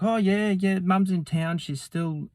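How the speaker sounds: high-pitched imitation of a shop girl; mock eager girl, high voice; retold nervous chatter. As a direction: babble an agreeable answer, pitched well up. Voicing nervous girl answering Jim.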